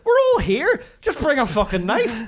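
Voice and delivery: loud, high exasperated outburst; exasperated shout. Retold or imitated. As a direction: yell it in mock frustration. Mock rant at waiter.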